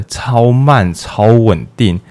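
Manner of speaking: slow, stretched words; slow and even, like the brainwaves. Shown as a demonstration. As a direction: draw out slow and steady to act out the calm brainwaves. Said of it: "脑波变得超慢".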